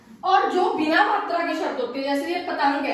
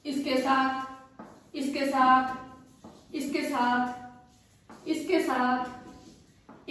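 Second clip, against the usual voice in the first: slow drill; 3 semitones lower, 5 dB quieter, much slower than usual. Shown as a demonstration. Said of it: "teacher drilling phrase slowly".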